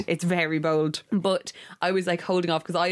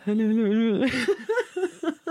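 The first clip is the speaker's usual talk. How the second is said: high laughing mock mumble; hello mumbled through giggles; 4 semitones higher, much slower than usual. Skipping the word love while singing, laughing mumble. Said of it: "just mumble".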